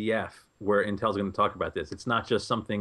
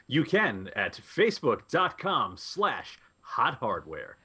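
over eager infomercial; slower than usual. Acted. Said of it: "in my infomercial voice".

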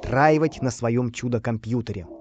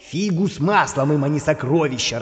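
angry villain; 3 semitones higher than usual. Acted. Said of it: "разозлился повелитель".

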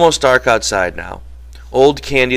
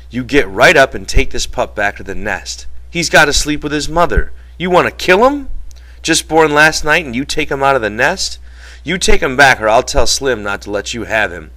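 raised voice, scolding Lennie over the pup; George scolding; 6 semitones higher, 5 dB louder than usual. Acted. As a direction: lay down the law, indignant questions climbing high.

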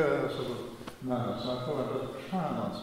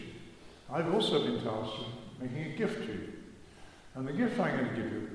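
formal thank-you speech. Retold or imitated. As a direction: deliver it like a pompous vote of thanks. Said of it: "cleared his throat and became very formal".

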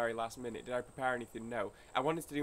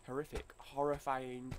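overdramatic; 6 dB louder, slower than usual. Pretend. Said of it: "I'm being a little bit dramatic".

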